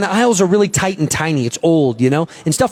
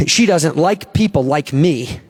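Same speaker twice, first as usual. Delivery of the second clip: hurt and scared; 5 semitones lower, slower than usual. Retold or imitated. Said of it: "she got scared".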